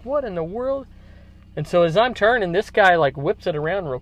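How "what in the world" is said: a sharp, high what-in-the-world; mock shock at the other driver; startled disbelief. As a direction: pitch jumps up on What. Driver suddenly whips into lane.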